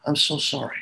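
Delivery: gently, with dropped shoulders; soft, sorry tone. Shown as a demonstration. Officer to grieving coworker, soft and sorry. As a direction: say it softly in sympathy. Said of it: "you speak with a soft tone".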